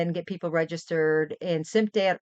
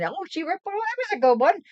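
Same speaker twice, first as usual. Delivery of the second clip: mock compliment; 9 semitones higher than usual.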